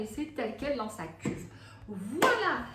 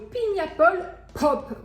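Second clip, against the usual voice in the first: Blue Crush spelled out slowly in a thick French accent, a bit louder; heavy French accent English; 6 semitones higher, 5 dB louder, slower than usual. Shown as a demonstration. Naming her drink flavours to viewers, slow French-accented English. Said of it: "pour finir avec mon anglais si parfait".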